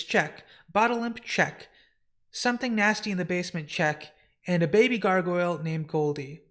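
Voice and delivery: lightly acted, businesslike official; brisk census taker. Census taker confirming the household list, brisk and officious. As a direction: tick each item off with a falling "check".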